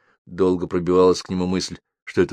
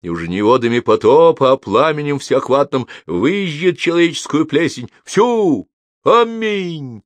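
booming, higher, louder preaching; thundering sermon; 7 semitones higher, 7 dB louder than usual. A narrator's reading. Monk preaching doom to the convicts, booming. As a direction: roar it like a deacon in a cathedral. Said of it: "Прогремел не слабее протодьякона".

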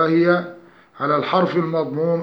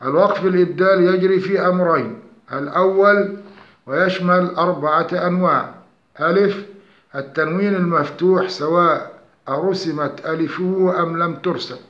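ordinary talk, nothing marked

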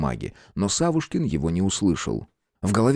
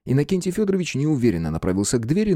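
usual speaking voice

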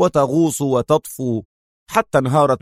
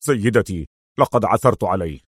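excited servant Tony; 3 semitones lower than usual. Acted. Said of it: "هاتفا".

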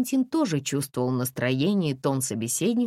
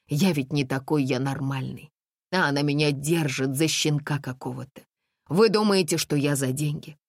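whiny man. Acted. Man justifying himself to the women, whining. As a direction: complain pitifully. Kostya complaining.

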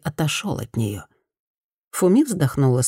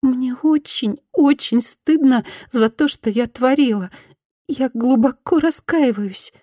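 higher, pleading former bully; repentant woman; 9 semitones higher than usual. Acted. Former bully apologises to Fumi, higher pleading voice. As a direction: beg forgiveness in a higher voice.

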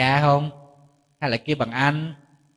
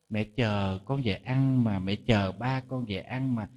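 mock pitiful mother; 5 semitones lower, 6 dB quieter, slower than usual. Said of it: "con chống tay thôi".

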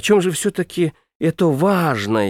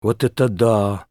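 drawn-out delight; 6 semitones lower than usual. A narrator's reading. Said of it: "протянул я восторженно".

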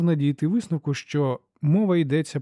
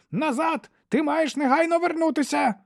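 much higher urgent call; higher commanding doctor voice. A narrator's reading. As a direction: order him back from a distance. Doctor calling from porch.

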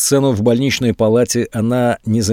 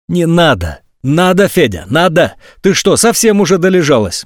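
exasperated friend scolding, voice pitched up and loud; angry berating; 3 dB louder than usual. Acted. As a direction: tear into her with contempt. Karina berates Olesya.

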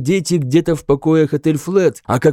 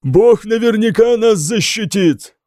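exclaimed; 7 semitones higher than usual. A narrator's reading. Bishop exclaiming to the hall. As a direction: cry it out with conviction. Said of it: "воскликнул епископ Эркенвальд".

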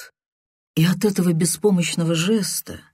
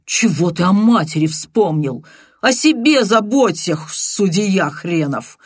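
angry retort; 3 semitones higher, 4 dB louder than usual. Acted. Angry rebuke of his friend.

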